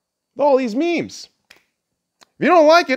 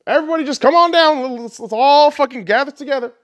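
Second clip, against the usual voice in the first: imitating Trump; 7 semitones higher than usual. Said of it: "Dude is more like".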